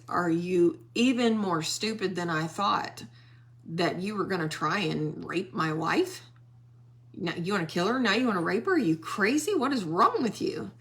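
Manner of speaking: rising, incredulous retold rage; furious king. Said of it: "get any more mad than he was".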